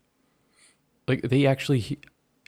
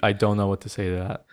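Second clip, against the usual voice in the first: laughing; 3 semitones lower than usual. Real, not acted. Speechless at the recording.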